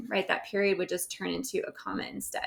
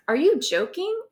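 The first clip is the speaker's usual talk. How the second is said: high, louder disbelieving question; incredulous question; 8 semitones higher, 5 dB louder than usual. Acted. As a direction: ask it as if you can't believe it. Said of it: "asked Sam".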